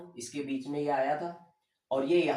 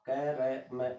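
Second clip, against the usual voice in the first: slow spelled demo; 3 semitones lower, 4 dB quieter, much slower than usual. Shown as a demonstration. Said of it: "अब इसको जल्दी से बोले".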